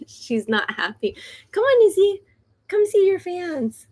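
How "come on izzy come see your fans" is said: high, coaxing call to the dog; calling a pet in a higher voice. Real, not acted. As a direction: sweet-talk the dog over to the camera. Coaxing her dog to come.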